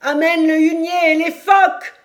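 high, sustained full-voiced command; shouted order. A narrator's reading. Captain orders the sails down in the gale, shouting. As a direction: bellow it over the storm. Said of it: "cria John Mangles".

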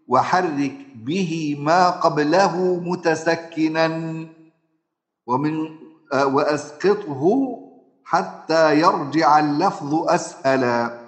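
measured recitation of the Shatibi verse; reciting verse. Shown as a demonstration. Teacher recites the Shatibiyya verse to students. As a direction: chant the line slowly like a memorised poem. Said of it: "بيقول إيه الإمام الشاطبي؟".

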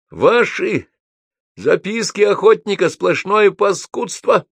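high, loud denunciation; angry shouting. A narrator's reading. Гоголь attacks a fellow writer's book, shouting. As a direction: yell your contempt at him. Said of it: "закричал он Тургенева".

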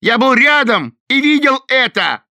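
loud, high shout; angry accusation. A narrator's reading. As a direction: insist furiously. Thorn accusing.

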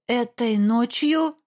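slow, blank echo; dull repeat. Acted. Daughter echoing Olaf, slow and blank. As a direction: repeat it numbly, slowly. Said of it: "тупо повторила я".

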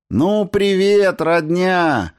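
high, loud, slow joyful greeting; cheerful shout. A narrator's reading. Newlywed greets the relatives behind him, loud and joyful. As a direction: call out to the family with delight. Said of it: "жизнерадостный крик".

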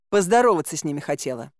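quick, mildly testy retort; огрызаясь. Acted. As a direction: answer back fast with understated irritation. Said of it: "огрызнулась я". (быстрый, слегка раздражённый ответ)

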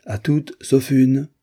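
sauf une, with une pressed hard and loud; stress on une. A narrator's reading. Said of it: "avec une emphase significative".

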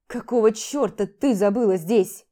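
loud, rough demand at the door; angry. Acted. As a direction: snap at the unwelcome guest. Max angrily confronts Vlada at door. (злой громкий окрик)

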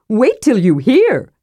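eager high voice, stretched out; Tass speaking. A narrator's reading. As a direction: tease the tale in a high, slow voice. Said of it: "said Tass".

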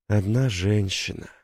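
tender. Acted. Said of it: "с нежностью произнёс он".

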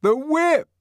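high, loud jumbled answer; a hundred voices answering at once; confused crowd answer. A narrator's reading. Crowd answering the savage, loud confused reply. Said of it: "answered a hundred voices confusedly".

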